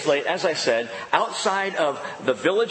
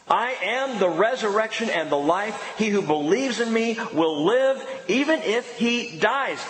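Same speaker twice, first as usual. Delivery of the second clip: higher and stronger, ringing out the promise; proclaiming; 6 semitones higher than usual. A narrator's reading. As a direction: proclaim it to the whole congregation. Proclaiming the verse again.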